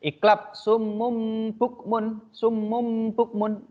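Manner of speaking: summum bukmun recited slowly, m hummed before b; iqlab recitation. Shown as a demonstration. Teacher reading one example to the class. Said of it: "saya baca satu aja ya".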